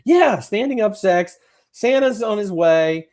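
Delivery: high, loud, slow "standing up sex"; teasing about the Christmas scene, high and drawn out; mock excited. Real, not acted.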